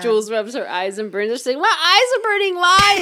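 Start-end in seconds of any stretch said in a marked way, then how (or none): 1.6-3.0 whiny voice. Retold or imitated. Friend retells burning eyes.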